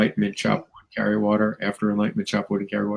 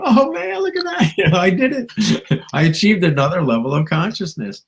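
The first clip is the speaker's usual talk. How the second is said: much higher, squealing delight with laughs; excited gushing; 8 semitones higher than usual. Retold or imitated. Spotting the new car outside, high laughing delight. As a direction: gush like a kid seeing a new car. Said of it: "my new car out there going".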